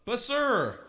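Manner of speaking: pleading goat. A narrator's reading. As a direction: plead politely like a scared goat. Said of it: "said the middle-sized billy goat".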